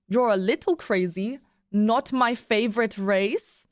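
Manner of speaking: put-on drawn-out objection in a loose German accent; badly faked German accent; attempted German accent. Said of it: "I can't do a German accent".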